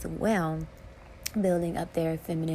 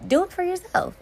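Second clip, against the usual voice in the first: much higher, louder cry of do it for yourself; emphatic urging; 12 semitones higher, 6 dB louder than usual. Real, not acted. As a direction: shout it as a rallying call, do punched. Repeats the urging, stronger.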